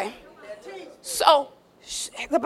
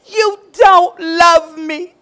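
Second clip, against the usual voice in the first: fake crying; 5 dB louder, slower than usual. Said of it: "We get them crocodile tears".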